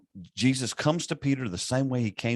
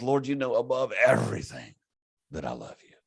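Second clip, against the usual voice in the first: exasperated. Retold or imitated. Peter to Jesus after the third asking, mildly exasperated. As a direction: act out a worn-down plea that sinks away at the end. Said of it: "And then Peter's exasperated".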